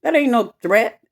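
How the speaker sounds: high-pitched outraged "What?", in disbelief; indignant disbelief. Retold or imitated. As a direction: shoot back in shocked disbelief. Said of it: "I'm like".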